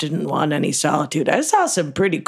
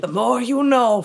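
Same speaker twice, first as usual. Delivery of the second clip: PSA slogan; 7 semitones higher than usual. Acted. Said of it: "Well, that sounds normal".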